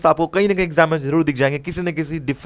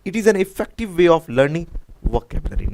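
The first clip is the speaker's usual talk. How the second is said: slow dictation; 4 semitones higher, much slower than usual. Shown as a demonstration. Teacher reads answer option slowly.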